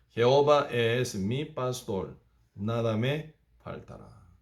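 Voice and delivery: recitar el versículo despacio; cita solemne. Acted. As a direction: lento y pausado, palabra por palabra. Correct verse against the boasts. (versículo citado con lenta solemnidad)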